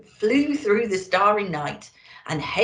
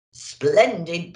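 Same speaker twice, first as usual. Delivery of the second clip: booming Santa; 4 dB louder than usual. Acted. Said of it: "boomed Santa".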